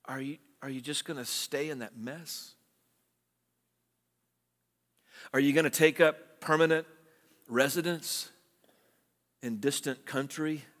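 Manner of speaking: soft, tender question to a wayward son; hushed fatherly appeal; loving father's plea. Retold or imitated. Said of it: "a loving father might ask a son".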